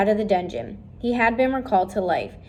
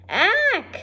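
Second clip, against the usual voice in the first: shocked shriek; 12 semitones higher than usual. Acted. Cook spots a mouse.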